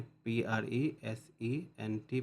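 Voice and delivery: letters spelled out slowly and separately; slow letter-by-letter spelling. Shown as a demonstration. Teacher spelling a word slowly for students. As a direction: spell it out one letter at a time. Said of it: "स्लेबल में divide कर दें".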